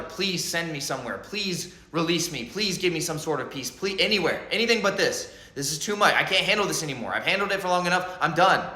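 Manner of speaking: mild, hurried mock pleading; begging for mercy. Overwhelmed soul begging the mother for release, pleading. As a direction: plead in a run, piling up each please. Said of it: "You're begging the mother".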